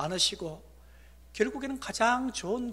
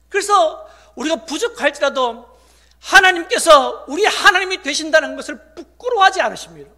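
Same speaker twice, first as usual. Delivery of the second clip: loud, raised sermon voice; emphatic preaching; 9 semitones higher, 16 dB louder than usual. Real, not acted. Pastor assuring congregation God is not ashamed, preaching emphatically. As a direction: drive the assurance home forcefully.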